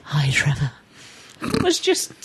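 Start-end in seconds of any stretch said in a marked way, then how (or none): 0.0-0.7 put-on phone voice. Shown as a demonstration. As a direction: answer like a posh telephone greeting. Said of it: "That's my phone voice".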